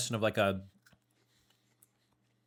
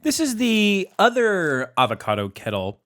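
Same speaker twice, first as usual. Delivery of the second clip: slow, high squawky parrot talk; 9 semitones higher, 9 dB louder, slower than usual. Pretend. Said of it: "I thought you were still doing the parrot voice".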